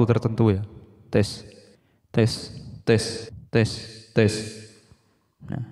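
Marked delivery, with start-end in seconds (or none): 1.1-4.3 distant airy test count; time tunnel effect. Shown as a demonstration. Dimension effect demo for viewers, tunnel-like voice. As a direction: sound lost inside a time tunnel. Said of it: "seperti suara kita ada di dalam lorong waktu".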